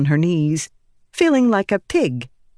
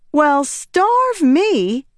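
surprised exclaim; 9 semitones higher, much slower than usual. Acted.

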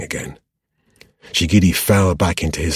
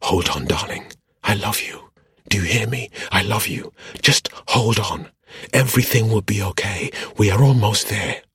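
higher, half-whispered reassurance; urgent whisper; 5 semitones higher than usual. A narrator's reading. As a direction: whisper it close into a lover's ear. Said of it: "whispered into Shigidi's ear".

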